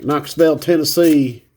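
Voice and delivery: a hammed-up Tennessee accent, "Knoxville" said as "Knoxvel"; bad Tennessee accent. Shown as a demonstration. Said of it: "I always wanna do a horrible accent when I read off Tennessee".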